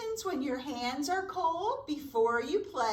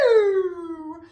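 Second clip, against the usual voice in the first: loud, disgusted pee-yoo at the smell; hammed-up yuck at the skunk; 2 semitones higher, 10 dB louder than usual. Teacher reacting to the skunk's smell, loud mock disgust.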